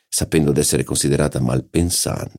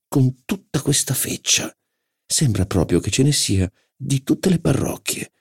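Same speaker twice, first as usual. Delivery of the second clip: sneering duchess; 8 semitones higher than usual. Acted.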